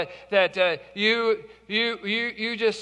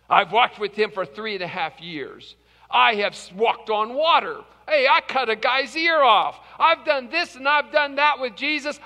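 boastful Peter; 3 semitones higher, 3 dB louder than usual. Acted. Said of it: "It was Peter who boasted these words".

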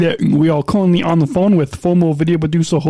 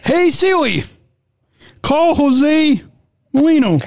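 clearer, higher retry for Siri; louder retry; 6 semitones higher, slower than usual. Shown as a demonstration. Retrying the voice command more clearly. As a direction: speak up so the phone hears. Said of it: "let me try it again".

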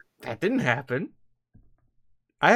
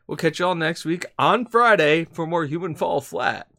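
booming show announcer outro. Acted. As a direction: announce it like a game show host. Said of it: "I've gone into announcer voice".

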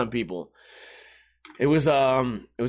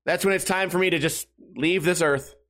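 ordinary delivery

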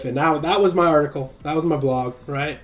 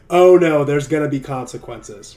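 louder hammed-up panicked sinner; mock fear; 6 dB louder than usual. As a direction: cry out in mock panic over consequences. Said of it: "fear sets in, like".

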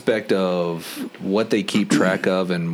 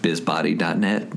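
late night DJ voice. Shown as a demonstration. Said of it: "late night D J voice".

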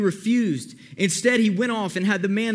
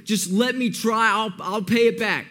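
mild mock pleading, drawn out slowly; begging. Servant begging the king over his debt, mildly pleading. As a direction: lightly act out a slow, apologetic plea. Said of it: "The servant begs and begs".

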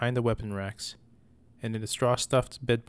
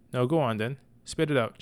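shouted; 3 semitones higher, 3 dB louder than usual. Acted. Mother shouting at her son to spit it out. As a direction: snap it at the boy to make him talk. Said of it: "she shouted".

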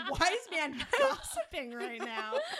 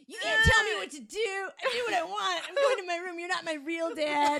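put-on loud bratty teen tantrum; sulky teen; 4 dB louder than usual. Demon talking back to Wise Man like a bratty teen. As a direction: storm off like a sulking kid.

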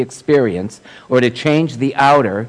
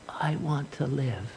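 very soft, slow, higher small voice; tiny inner voice; 3 semitones higher, 13 dB quieter, slower than usual. Retold or imitated. Woman recalls the little voice from her depths, tiny inner voice. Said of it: "I heard this tiny, tiny little voice".

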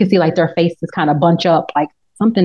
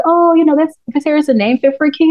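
mock king voice; 8 semitones higher than usual. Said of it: "he's like".

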